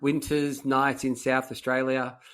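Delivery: slow, drawn-out dramatic storytelling; mock-dramatic scene setting, slowed right down; dramatic telling. Shown as a demonstration. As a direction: build it up like the opening of a tale. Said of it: "making it as dramatic as I can".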